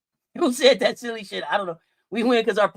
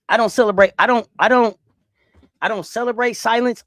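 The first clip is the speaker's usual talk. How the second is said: loud insistence; 6 dB louder than usual. Real, not acted.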